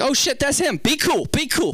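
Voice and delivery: high, flustered self-talk; panicked excitement at spotting a star; starstruck panic. Acted. Acts out spotting a celebrity.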